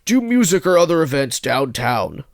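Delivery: a hint of an old man reading his ad; lightly aged voice listing hobbies. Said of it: "old man voice".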